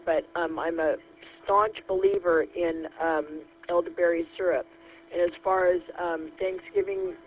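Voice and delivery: scratchy voice from a cold; rough, tired sick voice; hoarse. Real, not acted. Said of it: "Sorry about the scratchy voice".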